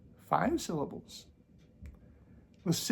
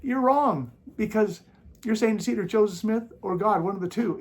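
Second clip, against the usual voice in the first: mock quote of a brother; 6 semitones higher, 7 dB louder than usual. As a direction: drag out "wrong" in a mocking, superior tone. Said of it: "I have another brother say".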